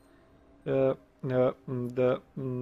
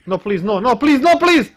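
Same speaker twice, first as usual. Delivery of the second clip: anguished denial; 11 semitones higher, 13 dB louder, slower than usual. Real, not acted. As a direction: pitch climbing desperate pleading. Begging while about to die.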